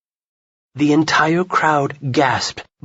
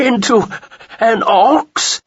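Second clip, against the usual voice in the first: louder, laughing through the question; bursting out laughing; 4 semitones higher, 5 dB louder than usual. A narrator's reading. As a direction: crack up mid-line. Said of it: "Skeld burst out suddenly, laughing so hard".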